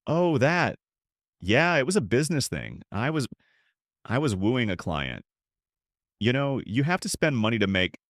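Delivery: damage control. Acted. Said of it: "He went into damage control".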